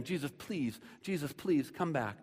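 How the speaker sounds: hushed acted plea; pleading. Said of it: "he's pleading and he's begging".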